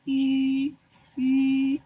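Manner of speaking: "yu" said as ü with small round lips, rising volume; correct ü. Shown as a demonstration. Teacher telling pupils to read ü even without dots, emphatic. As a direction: insist on the ü sound. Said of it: "Tapi kamu harus baca yu".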